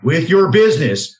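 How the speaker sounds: a personal pitch read for his loan business, slowing down on the phone number; a talk-show host reading his own ad, lightly salesy; radio ad read. Acted. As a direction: sell it like a host's own sponsor spot.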